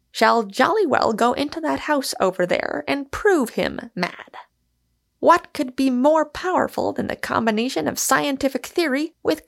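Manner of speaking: breezy oratory; Michael, cheerfully flippant. Acted. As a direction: hold forth with cheerful mock formality.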